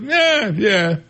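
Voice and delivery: high, quick mock agreement from the customer; high, eager yes-man; clueless eager yes. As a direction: play the customer nodding along without understanding. Guy misunderstands the barber.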